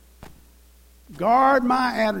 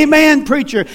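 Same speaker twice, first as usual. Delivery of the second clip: amen corner call; 5 semitones higher, 5 dB louder than usual. Retold or imitated. Deacons calling out in church.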